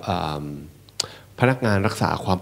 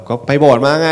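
high, loud snapped answer; loud retort; 6 semitones higher, 8 dB louder than usual. Acted. Grown child answering parents who asked where they went, loud retort. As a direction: answer the parents back loudly. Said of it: "พูดเสียงกันดังว่าแบบ".

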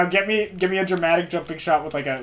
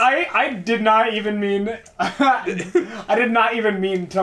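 voice breaking; 4 semitones higher, slower than usual. Real, not acted. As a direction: voice cracks mid-sentence. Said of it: "there was a little bit of voice break in that".

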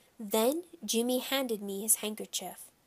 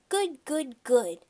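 put-on high toddler chirp; high-pitched childish babble; little boy Fudgy; 4 semitones higher, 4 dB louder, slower than usual. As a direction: repeat it in a small child's voice. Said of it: "Fudgy said".

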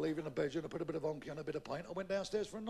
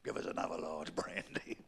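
whispering; 11 semitones lower, 6 dB quieter than usual. Acted. Whispered order.

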